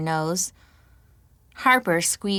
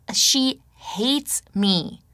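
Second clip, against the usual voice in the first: whisper; 5 semitones higher, much slower than usual. A narrator's reading. Frightened confession.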